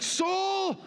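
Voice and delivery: high, slow, tender coaxing; sing-song comfort to his own soul; David speaking to his soul. Retold or imitated. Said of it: "he spoke to his soul".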